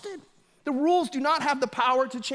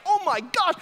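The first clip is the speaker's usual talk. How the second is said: a higher, awed exclamation, slow at the end; boy stunned by the pastor's nose, awed and higher; amazed kid; 6 semitones higher, slower than usual. Retold or imitated. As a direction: gape at the big nose. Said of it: "my face was like".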